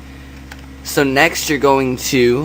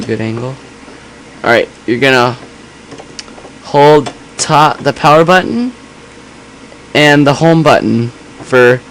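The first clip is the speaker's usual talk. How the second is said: louder, more echoey camera mic; camera mic sound; 4 dB louder than usual. Real, not acted. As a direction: speak into a sensitive camera mic. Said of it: "the camera mic's a bit s-, too sensitive".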